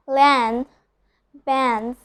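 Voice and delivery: "land" and "bands" without the D; silent D. Shown as a demonstration. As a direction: say "land" as lan and "bands" as bans. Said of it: "skipping the sound of the letter D".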